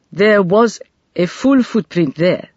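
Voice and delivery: put-on slow, precise English accent; an inspector's crisp English accent; clipped English accent. A narrator's reading. Inspector Banda reports the footprint in a clipped English accent. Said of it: "in a clipped English accent".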